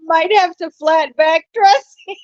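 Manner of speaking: real giggles breaking up the sentence; laughing too hard. Real, not acted. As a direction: try to read it out while laughing. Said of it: "I'm laughing too hard".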